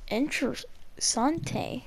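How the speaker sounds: slow, soft Spanish pronunciation; Spanish word. Pretend. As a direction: say it like a Spanish speaker. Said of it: "Mm, Spanish".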